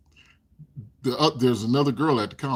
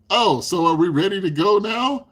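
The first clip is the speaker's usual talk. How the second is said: imitating Bob; 6 semitones higher, 5 dB louder, slower than usual. Impatient Bob voiced.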